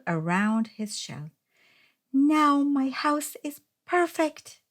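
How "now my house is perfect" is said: higher, delighted cheer. A narrator's reading. Hermit Crab admiring his finished house, cheering happily. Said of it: "cheered Hermit Crab".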